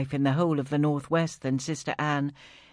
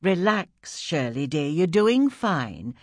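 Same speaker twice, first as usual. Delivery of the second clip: gently; 2 semitones higher, slower than usual. Acted. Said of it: "Sister Anne said gently".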